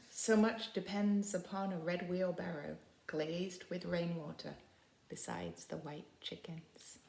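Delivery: reading that fades to a whisper; poem reading. Acted. Teacher reading the wheelbarrow poem, fading. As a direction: let it drift off at the chickens.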